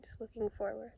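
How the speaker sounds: hushed meditation cues with long silences; calm, understated breathing instructions; guided meditation. Real, not acted. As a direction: guide the breath gently, leaving space after each phrase.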